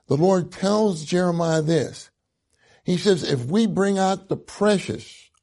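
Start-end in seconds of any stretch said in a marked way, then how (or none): 3.2-5.3 "precious" leaned on and lifted; emphasis on "precious"; stress on precious. Shown as a demonstration. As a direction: hit the word "precious" hard. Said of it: "I'm emphasizing the word precious".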